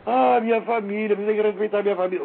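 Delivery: high-pitched, hammed-up weepy plea; mock tearful whining. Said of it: "se ela chegasse lá toda chorosa".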